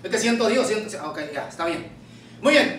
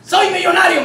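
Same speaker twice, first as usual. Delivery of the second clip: higher-pitched mock boast; indignant boast; 4 semitones higher, 3 dB louder than usual. Church brother correcting the pastor, proudly boasting. Retelling brethren rejecting pity.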